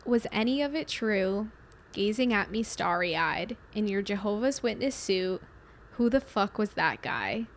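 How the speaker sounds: slow, soft recital of song lyrics; reading lyrics aloud. Shown as a demonstration. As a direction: read the verse out slowly. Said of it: "I'll read the lyrics".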